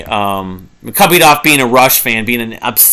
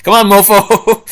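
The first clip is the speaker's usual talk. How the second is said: higher, drawn-out playful taunt, imitating a guitar; talking guitar; 7 semitones higher, 3 dB louder, slower than usual. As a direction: stretch it like a guitar lick talking. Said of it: "sort of saying that on his guitar string".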